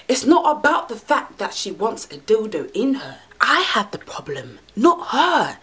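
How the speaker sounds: breathy near-crying whisper; unvoiced whisper on the edge of crying; tearful whisper. Real, not acted. Tearful confession of insecurity.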